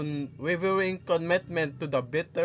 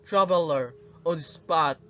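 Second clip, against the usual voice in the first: passionate monologue. Acted. Rizal addressing the youth of his country, passionate and inspiring. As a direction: deliver a stirring speech, weighing each phrase. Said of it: "direct address and passionate tone".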